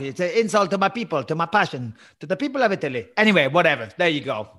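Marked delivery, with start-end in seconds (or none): 0.0-3.1 put-on light Italian accent; a hint of Italian pride. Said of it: "He doesn't sound anything like that".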